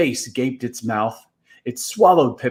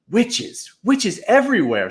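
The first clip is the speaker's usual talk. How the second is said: higher, wide-eyed wonder; amazed; 9 semitones higher than usual. Acted. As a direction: marvel at the sight. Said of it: "said Tom, amazed".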